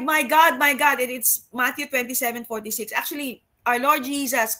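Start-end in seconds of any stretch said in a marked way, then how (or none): 0.0-1.0 a preacher raising his voice for the cry at the cross; preaching cry. Real, not acted. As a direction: proclaim the cross with force. Preacher dramatizes Jesus' cry.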